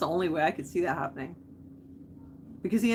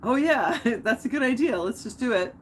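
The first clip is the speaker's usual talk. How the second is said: eager captain; 5 semitones higher, 4 dB louder than usual. Retold or imitated. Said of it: "And he's like".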